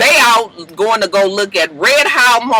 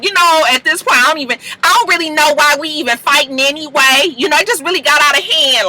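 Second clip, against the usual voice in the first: mildly raised Pooh impression; a light go at Pooh's voice; 5 semitones higher than usual. The vlogger doing Pooh's voice while Pooh explains herself, lightly higher. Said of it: "trying to get my Pooh voice".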